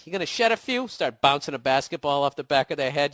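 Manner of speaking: a hint of a taunting drill-sergeant dad; lightly voiced bully father, jeering; Great Santini mock. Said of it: "that guy in, uh, The Great Santini".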